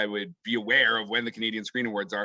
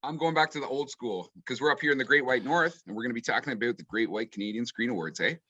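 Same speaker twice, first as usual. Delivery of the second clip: put-on Canadian accent; 2 semitones lower than usual. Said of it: "that's my Canadian accent".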